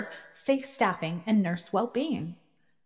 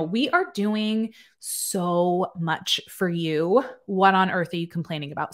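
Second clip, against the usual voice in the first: mock condescending boss; slower than usual.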